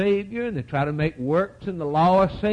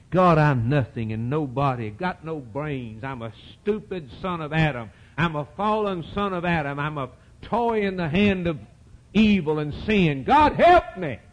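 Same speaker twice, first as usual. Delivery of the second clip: acted penitent prayer, rising at the end; desperate prayer. Acts a sinner's desperate prayer.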